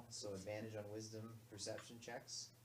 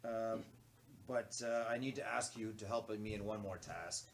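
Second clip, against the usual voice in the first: loud, deep commanding voice; 6 dB louder than usual. Acted. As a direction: give an urgent quest in a deep voice. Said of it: "I'll give him a deep voice".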